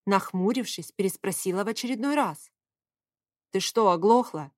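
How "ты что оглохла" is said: irritated snap; a touch of barking at her; mild bark. Acted. Favius barks at the woman for not hearing. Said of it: "рявкнул Фавий".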